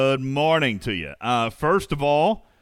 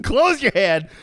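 high, loud laughing repeat; 8 semitones higher, 6 dB louder, slower than usual. Real, not acted. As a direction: crack up on the words. Laughing at the slip.

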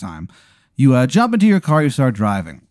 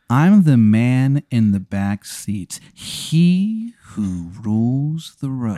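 menacing ghost; much slower than usual. Retold or imitated.

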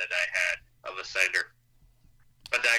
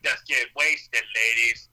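party host voice; 5 dB louder, slower than usual. Pretend. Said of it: "and you go and, like".

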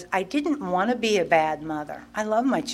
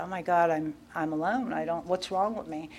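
tearful; 2 semitones lower, 9 dB quieter than usual. Retold or imitated. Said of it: "I started to cry".

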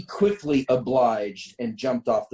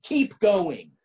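high-pitched urgent call; narrated yell, moderately raised; yelled order; 8 semitones higher than usual. A narrator's reading. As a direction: call out to keep the driver moving. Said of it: "I yell back".

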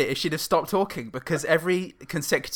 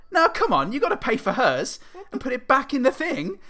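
a much higher, insistent mock voice of a bossy woman; pushy stranger; 10 semitones higher than usual. The woman in the queue insisting he pay for the other shopping, high mock bossy voice. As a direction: imitate a bossy woman, lifting the pitch high.

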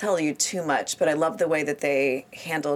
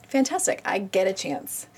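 excited; 3 semitones higher than usual. Retold or imitated. Retold own excited reaction.

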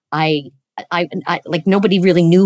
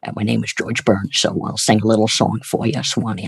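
put-on low, soft old crooner voice; George Burns impression; 5 semitones lower, 3 dB quieter than usual. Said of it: "I would just do the impression".

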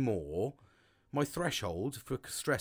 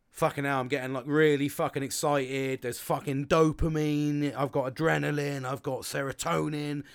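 louder, hyped-up rush of words; buzzing with excitement; 5 dB louder than usual. Retold or imitated. Explaining how stress makes him feel, louder and excited. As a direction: imitate yourself getting all fired up on adrenaline. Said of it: "I go".

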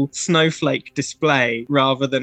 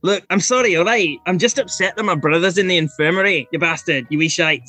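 put-on sheepish Scottish kid; faster than usual. GM voices the kid, apologizing.

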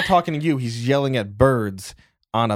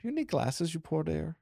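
mock pity; 5 semitones higher than usual. Mocking sister, high voice.

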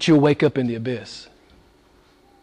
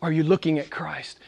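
hushed question; 6 dB quieter than usual. Acted. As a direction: pull them in quietly. Hushed answer to the challenge.

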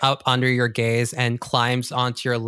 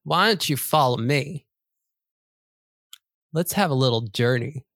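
louder, lightly voiced scheming cat; sly bossy cat; 3 dB louder than usual. Cat luring the new kid on a journey, louder sly voice. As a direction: coax then order, a touch smug. Cat leads Cecil away.

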